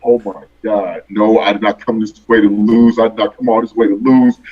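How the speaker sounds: low-pitched inner panic, kept under control; mild imitated freak-out, voice dropped low. Rapper recalling his silent worry on stage, understated freaking out. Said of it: "I'm freaking out like".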